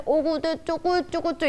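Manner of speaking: put-on high-pitched cooing baby talk. Lecturer mock-cooing at a fifth-grader, baby talk. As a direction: coo as if to a tiny baby. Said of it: "초등학교 오 학년한테".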